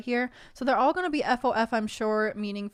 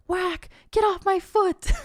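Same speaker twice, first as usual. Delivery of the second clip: high, loud squawking duck voice; Donald Duck yell; 9 semitones higher, 3 dB louder, slower than usual. Acted. Donald yelling from inside the chest, duck voice. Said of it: "the sound of someone yelling".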